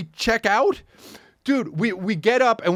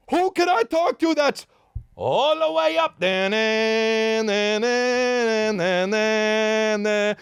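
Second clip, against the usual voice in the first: singsong; slower than usual. Retold or imitated. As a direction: croon the question like a song.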